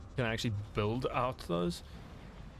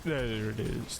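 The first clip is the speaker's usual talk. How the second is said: orc voice; slower than usual. Pretend. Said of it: "The orc voice".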